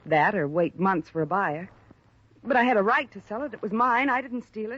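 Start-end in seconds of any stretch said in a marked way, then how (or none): 2.4-4.8 louder and higher, defending herself hard; indignant protest. Acted. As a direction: push back, stung by the accusation. Accused of stealing, she protests.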